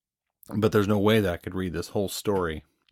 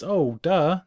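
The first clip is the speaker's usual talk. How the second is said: higher and louder mock self-scolding; sheepish realization; 9 semitones higher, 7 dB louder than usual. Host retelling feeling stupid, mock surprised. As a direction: catch yourself being slow, laughing at yourself. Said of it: "when I realize".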